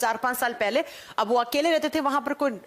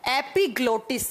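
slow repeated term. Shown as a demonstration. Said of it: "इसे क्या कहा जाता है?".

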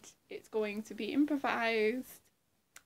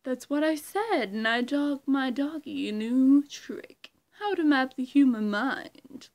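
slow, loud, gloating villain; Riddler impression; 5 dB louder, slower than usual. Riddler impression gloating about Bruce Wayne, slow and loud. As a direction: savour each taunt. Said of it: "that's my impression of Riddler".

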